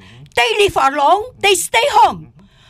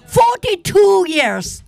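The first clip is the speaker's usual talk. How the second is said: indignant shout; 4 semitones higher, slower than usual. Real, not acted. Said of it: "I'm so angry".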